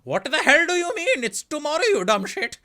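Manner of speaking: loud, high mock South Asian accent. Mocking relatives abroad in a loud South Asian accent. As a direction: poke fun with a South Asian accent, shouting. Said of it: "then you did that accent and gave it away".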